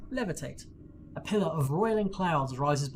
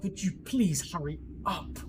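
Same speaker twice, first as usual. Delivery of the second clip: impatient snapping. Acted. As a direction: bark move at her impatiently. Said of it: "Horgus is like".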